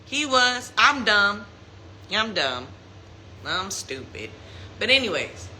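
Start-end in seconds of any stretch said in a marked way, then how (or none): 0.8-4.3 sinking lower and quieter, mocking herself; mock self-put-down, fading out; mock self-deprecation. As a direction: drop the voice and call yourself stupid.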